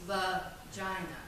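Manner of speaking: VAGINA stretched out slowly and softly; drawn-out word. Acted. Performer testing the word on the audience, slow and hushed. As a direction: say VAGINA low and slow, pulling the syllables apart.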